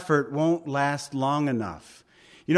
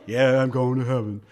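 half-hearted reply; 3 semitones lower, 3 dB louder than usual. Acted. A believer answering a reminder of heaven, half-hearted. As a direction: play a lukewarm believer agreeing.

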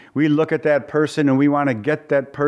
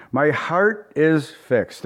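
slow emphasis; much slower than usual. Shown as a demonstration.

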